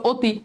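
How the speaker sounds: অতি pronounced "oti", rounded opening vowel; o sound in অতি. Shown as a demonstration. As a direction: say অতি with its first vowel closed to "o". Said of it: "ও হয়ে যায়, তাহলে হয়ে গেল".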